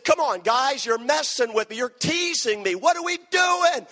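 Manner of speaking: pleading with the guys, rising high; worked-up mock protest; exasperated protest. Protesting to teasing friends.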